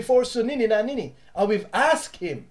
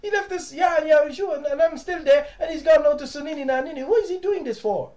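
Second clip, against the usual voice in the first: puzzled bystander; 7 semitones higher than usual. Retold or imitated. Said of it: "And I said".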